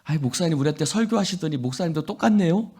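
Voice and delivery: a teasing jab at the pastor, quick and lilting; mocking congregant. Congregant teasing the pastor, mock-accusing. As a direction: rib the pastor lightly, rising at the end. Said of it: "목사님한테 가서 이런 거예요".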